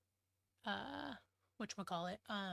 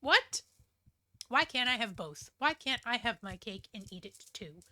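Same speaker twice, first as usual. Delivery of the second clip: loud indignant What? then a fast protest; pissed off; 5 dB louder than usual. Retold or imitated. A wife protesting her husband's choice, loud and indignant. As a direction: play the angry wife who wants both. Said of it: "But she's then pissed".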